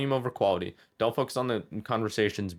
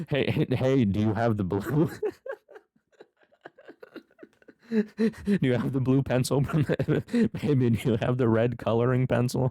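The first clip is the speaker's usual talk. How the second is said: put-on loud, booming, full-volume habitual talking; 4 semitones higher, 4 dB louder than usual. Retelling how you talked to your girlfriend in a silent art class: loud talking. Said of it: "I speak so loud regularly".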